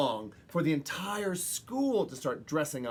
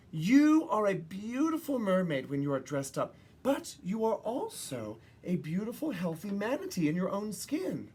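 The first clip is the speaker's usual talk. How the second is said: reassuring mothers; 5 semitones higher than usual. Acted. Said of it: "pulled her aside and said".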